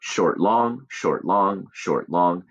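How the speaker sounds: brief "short" then longer "long", like a steady beat; iambic rhythm demo. Shown as a demonstration. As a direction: recite "short, long" in even pairs, weight on "long". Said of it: "those syllable markings".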